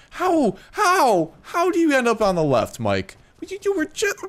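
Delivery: high, loud cry of disbelief; exasperated yell. Real, not acted. Player yelling at his stray trike Mike, high exasperated shout. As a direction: shriek at the dino who wandered off.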